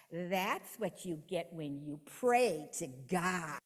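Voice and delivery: slow, taunting voice from the pit, lightly voiced; a hint of a sneering spirit, drawn out slowly; mocking demon voice. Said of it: "a voice speaks out and says".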